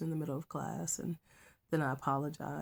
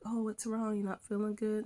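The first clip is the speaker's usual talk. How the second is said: higher-pitched, concerned question; retold concern; 5 semitones higher than usual. Former student checking on his crying teacher, retold concern.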